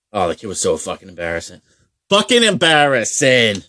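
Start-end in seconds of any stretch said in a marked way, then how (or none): 2.1-3.7 louder, laughing burst ending in a high squealing laugh; laughing exclaim. Real, not acted. Teller recalls the embarrassing goalie, laughing out loud. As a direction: crack up at the memory, loud and high.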